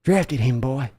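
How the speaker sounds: slow, pointed interrogation; slow demand. Acted. Father pressing his son to admit who drafted the player, slow pointed demand. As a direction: drag out the question to corner him.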